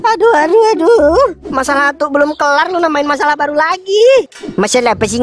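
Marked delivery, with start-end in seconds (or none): 0.1-1.3 high, loud protest; loud panicked objection; panicked shout. Acted. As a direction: yell no in panic.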